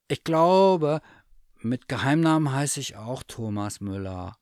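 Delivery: a hint of a proud little bear; lightly voiced teddy bear. Bear tells the cat his secret name, lightly voiced. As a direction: announce it earnestly. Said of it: "Dann sagte er".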